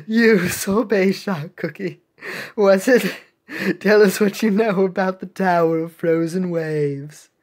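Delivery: put-on British accent. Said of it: "I'm British Monica now".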